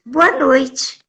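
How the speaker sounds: lightly voiced airy, clueless woman; a hint of dreamy innocence; retold absent-minded actress. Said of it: "tava sempre no ar".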